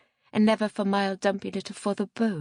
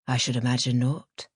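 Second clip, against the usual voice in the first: The narrator; 7 semitones lower than usual. A narrator's reading.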